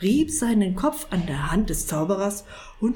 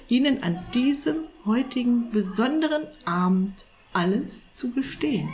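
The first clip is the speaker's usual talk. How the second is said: higher, careful confessional tone; lightly voiced confessing cat; 5 semitones higher than usual. Cat confessing to the sorcerer, a touch ashamed. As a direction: own up shamefully, phrase by phrase.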